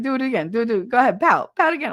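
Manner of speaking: playful son begging for a repeat; egging-on son. Retold or imitated. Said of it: "'cause he's like".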